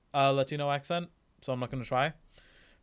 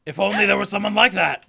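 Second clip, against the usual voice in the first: loud, higher acted cry; dramatic shouted wish; frustrated outburst; 5 semitones higher, 10 dB louder than usual. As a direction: cry it out in exasperation, full volume. Game character cries out frustrated.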